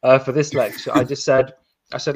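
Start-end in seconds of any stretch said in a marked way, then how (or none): 0.0-0.9 a pointed, put-upon announcement; passive aggressive. Retold or imitated. Lecturer needling students who complained, passive aggressive. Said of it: "passive aggressively start the second lecture saying".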